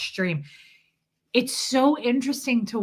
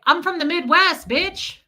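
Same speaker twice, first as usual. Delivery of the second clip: mock tough-guy boast; 7 semitones higher, 5 dB louder than usual.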